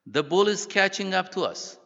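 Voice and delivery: high, loud urgent cry; acted-out panicked shout; alarmed warning. A narrator's reading. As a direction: warn a companion in alarm. Companion goes on imploring, bull nearing.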